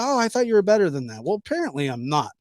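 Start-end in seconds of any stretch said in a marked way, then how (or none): 0.0-1.2 mocking commenter. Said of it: "somebody said".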